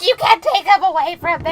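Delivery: hammed-up desperate protest; desperate mock wail. Rehab scene, hugging Hamble.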